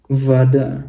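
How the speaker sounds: vada, stress on the first syllable; Russian word demo. Shown as a demonstration. Teacher modelling vada for students. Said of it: "Maka kita bacanya jadi vada".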